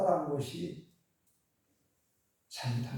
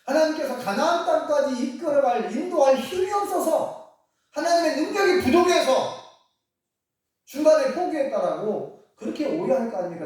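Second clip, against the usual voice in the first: high, loud insistent plea; urgent pleading; 9 semitones higher, 6 dB louder than usual. Acted. Moses interceding with God, high and loud pleading. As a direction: press the case hard to God.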